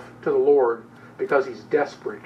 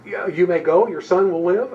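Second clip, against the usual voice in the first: mock disbelief, a bit louder and rising; incredulous echo; 4 semitones higher, 4 dB louder than usual. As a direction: throw it back as if that can't be all. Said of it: "Is that it?".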